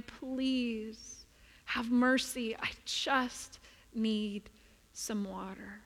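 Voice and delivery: faint, slow broken plea for water; man crying. Acted. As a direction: beg weakly, words dragging out at "I just need". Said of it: "heard this man crying".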